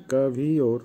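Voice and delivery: কাভিওর in separated syllables, ka-vi-or; careful pronunciation. Shown as a demonstration. Teacher repeating the word for carpet, carefully pronounced. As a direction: sound out কাভিওর as ka, vi, or. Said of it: "উচ্চারণ হবে".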